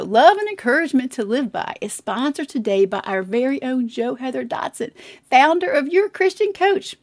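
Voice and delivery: steady ad read; sponsor read. Acted. Announcing the sponsor to podcast listeners, ad read. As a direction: read the sponsor message cleanly.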